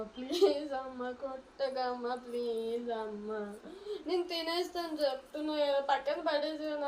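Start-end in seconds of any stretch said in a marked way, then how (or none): 0.0-3.6 slow, drawn-out frightened pleading; desperate begging. Acted. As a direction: stretch each plea out, scared. Daughter begs not to be hit. (కొట్టొద్దని అమ్మను వేడుకునే కూతురు, నెమ్మదిగా భయంగా)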